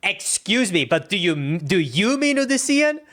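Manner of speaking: incredulous mimicked correction, rising; mock-offended echo of a snide question; mocking correcting tone. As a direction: throw a condescending correction back, climbing high at the end. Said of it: "are you with the tone correcting me".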